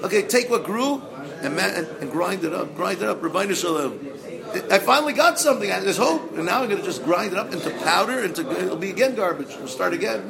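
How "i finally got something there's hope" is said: joyful laugh. Acted. Joyful relief in story.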